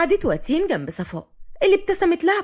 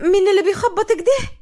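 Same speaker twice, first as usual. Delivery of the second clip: higher, louder irritated call; annoyed; 7 semitones higher, 5 dB louder than usual. A narrator's reading. Watin to whoever is knocking, annoyed.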